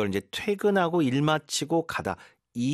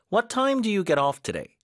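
slow model question; 9 semitones higher, much slower than usual. Shown as a demonstration. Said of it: "가장 흔하게 쓰는 문장입니다".

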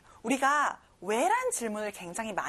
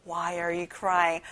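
slow model; 5 semitones lower, much slower than usual. Shown as a demonstration. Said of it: "한번 더 해볼게요".

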